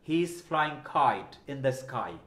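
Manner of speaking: slow model sentence with kh in kite; low, slow, puff of air on kite; deliberate example, kite said as khait; aspirated kite. Shown as a demonstration. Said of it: "খ".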